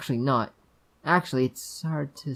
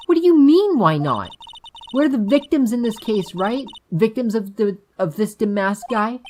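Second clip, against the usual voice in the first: high, louder indignant outburst; indignant girl; 8 semitones higher, 8 dB louder than usual. Acted. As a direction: protest in a raised girlish voice.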